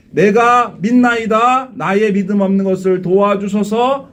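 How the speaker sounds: slow pleading cry of faith; fervent cry. Shown as a demonstration. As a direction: cry it out with the congregation. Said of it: "다 같이요".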